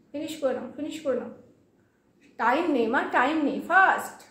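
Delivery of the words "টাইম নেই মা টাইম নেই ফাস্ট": sharp command. Real, not acted. Snapping at child to hurry.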